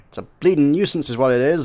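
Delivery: a light Yorkshire grumble; lightly voiced Yorkshire artificer, grumbling. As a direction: grouse about it lightly in a Yorkshire accent. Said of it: "grumbled in a thick Yorkshire accent".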